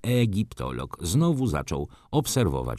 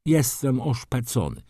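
lightly voiced, higher-pitched wounded baron; complaining baron; 5 semitones higher than usual. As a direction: lament the damage in a raised voice. Disfigured baron laments his injury. (lekko podwyższony głos skarżącego się barona)

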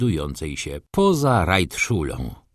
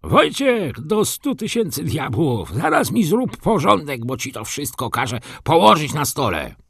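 shouting across; 7 semitones higher than usual. A narrator's reading. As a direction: yell it down the hallway at Wojciech. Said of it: "zawołał".

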